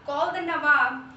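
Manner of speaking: father sending his son to fetch the Nawab, loud call; calling out an order. Acted. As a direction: send the boy off with a call. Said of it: "Kadir turned to his son".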